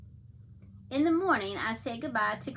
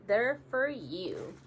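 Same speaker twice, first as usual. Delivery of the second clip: gentle smiling; slower than usual. Retold or imitated. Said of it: "Gran just smiles".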